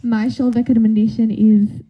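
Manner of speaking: put-on careful Soviet-accented presenting; halting Soviet-boy voice. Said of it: "Soviet boy starting it up".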